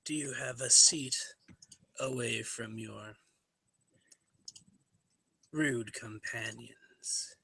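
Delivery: slow, whispered menace; quiet cold request. Acted. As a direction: hiss it softly and slowly. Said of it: "stares at the individual again and says".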